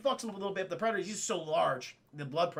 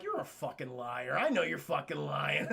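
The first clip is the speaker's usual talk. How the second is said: low mock accusation; 5 semitones lower, 3 dB quieter than usual. The speaker coolly accuses the liar.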